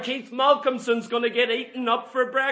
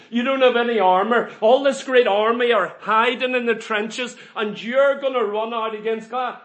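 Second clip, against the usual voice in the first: mock scolding; 6 dB louder than usual. Preacher mocks the doubters.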